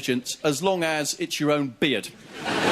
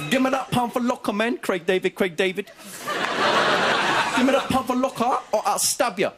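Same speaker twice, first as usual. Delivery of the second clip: put-on high, slow street-kid threat; exaggerated cartoon intonation; 5 semitones higher than usual. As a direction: drag out a cocky kid's threat. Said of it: "He goes".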